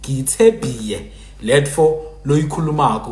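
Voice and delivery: Baphuti-style sample sentence; Baphuti pronunciation. Shown as a demonstration. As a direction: demonstrate how Baphuti speak, y replacing l. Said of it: "Baphuti people will say".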